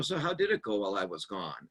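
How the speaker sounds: coming back in calmly after the blowup; soft tone. Shown as a demonstration. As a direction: ask it gently and kindly. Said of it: "in a soft tone of voice".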